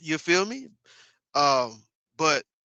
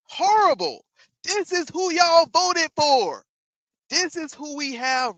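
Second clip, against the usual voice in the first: higher and louder, slow on the last line; exasperated shout; 10 semitones higher, 5 dB louder, slower than usual. Real, not acted. Streamer blasting chat over Trump's voters, loud and high. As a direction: yell it at the voters, drawn out.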